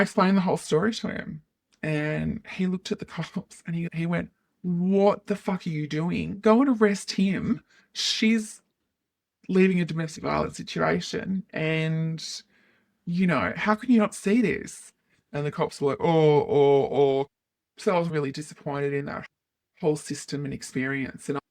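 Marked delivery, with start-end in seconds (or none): 4.6-14.9 raised and indignant; exasperated psychiatrist. Retold or imitated. Psychiatrist scolding the cops. 16.0-17.3 loud, caught-out "oh"; sheepish cops. Retold or imitated. Police caught out by the psychiatrist, a loud startled oh.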